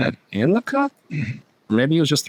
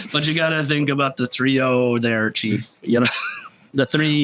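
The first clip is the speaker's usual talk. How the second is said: Quint; 2 semitones higher than usual. Pretend. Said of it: "I should just talk like Quint".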